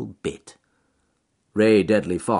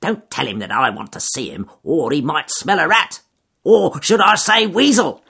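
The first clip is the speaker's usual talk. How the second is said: sly fox voice; 8 semitones higher, 8 dB louder than usual. Acted. Fox scheming with weasel.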